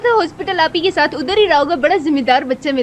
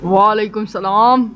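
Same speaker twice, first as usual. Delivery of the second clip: lightly voiced brother; 6 semitones lower, much slower than usual. Voiced brother in hospital bed.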